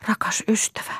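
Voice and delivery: a near-sob whisper; tearful whisper. A narrator's reading. Lea, moved to tears, comforts Aulis in a tearful whisper. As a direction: breathe the words out through tears. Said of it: "häntä itketti".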